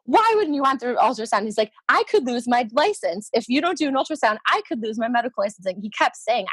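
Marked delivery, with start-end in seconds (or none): 0.0-1.5 imitated flustered protest, pitched up; mock a blubbering doctor, lightly; mildly put-on disbelief. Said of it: "he just immediately started blubbering". 1.9-5.7 mock pleading that speeds up; blubbering doctor. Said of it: "he just immediately started blubbering".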